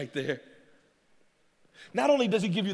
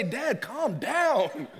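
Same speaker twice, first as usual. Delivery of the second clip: mild daughter's voice; much slower than usual. Retold or imitated. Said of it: "my daughter has to say".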